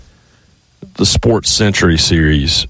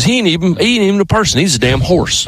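high-pitched mock outrage; retold indignation; 10 semitones higher than usual. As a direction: imitate an indignant driver, pitch jumping up. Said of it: "really got mad about it".

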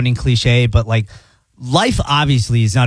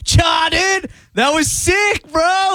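surfer bro voice; much slower than usual. Retold or imitated. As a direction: shout it like a stoked surfer bro. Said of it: "God or the universe is gonna be there going".

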